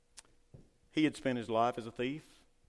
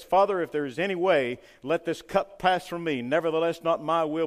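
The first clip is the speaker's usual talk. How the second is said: louder pleading prayer; crying out to the Father; 4 semitones higher, 8 dB louder than usual. Retold or imitated. Jesus pleading with the Father, loud crying out. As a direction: beg the Father to let the cup pass. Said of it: "as he cries out to the Father".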